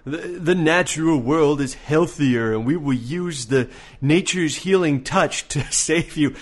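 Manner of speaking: slow, dreamy mock natural healer; lightly voiced holistic guru, slowed down. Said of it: "it's that whole".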